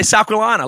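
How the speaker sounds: South Carolina said the Southern way; South Carolina in local Southern speech; local pronunciation. Shown as a demonstration. Telling outsiders how locals say it, local pronunciation. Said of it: "like we do".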